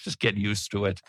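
gentle grin in the voice; smiling, soft-spoken. Real, not acted. Preacher reassuring doubters with a smile. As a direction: say it softly with a smile. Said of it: "try to put a smile on my face".

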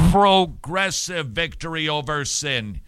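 progressive punched, loud and slow; preacher hammering the word progressive, loud and slow; stress on progressive. Shown as a demonstration. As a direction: lean hard on progressive, drawn out. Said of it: "I think I successfully emphasized the word progressive".

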